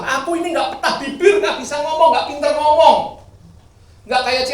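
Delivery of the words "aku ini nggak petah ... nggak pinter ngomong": higher, louder whiny excuse with a laugh; mock excuse. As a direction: make lame excuses, laughing. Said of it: "dia pasti beralasan". (alasan merengek dengan suara tinggi dan keras)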